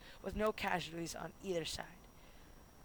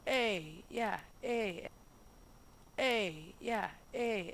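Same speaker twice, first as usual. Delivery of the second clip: slightly raised cheering calls; lightly hammed-up whooping; mock celebratory yell; 3 semitones higher, much slower than usual. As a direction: imitate a rowdy cheer, half-hearted. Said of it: "and yelling".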